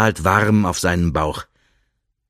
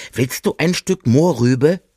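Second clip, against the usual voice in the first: friendly hare; 5 semitones higher than usual. Acted. Hare offers carrot.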